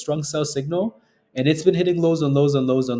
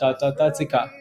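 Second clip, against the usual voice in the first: put-on Antarctica reels accent. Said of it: "I don't know how to pronounce it with that accent".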